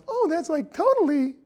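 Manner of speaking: put-on high valley-girl gush; totally ditzy. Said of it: "Chinese girl going".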